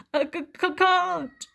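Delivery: a touch of a scared stammer; mild sobbing stammer. Acted. Trapped Tyro refusing to move, mild sobbing stammer. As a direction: stutter it out, frightened. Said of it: "Tyro sobbed".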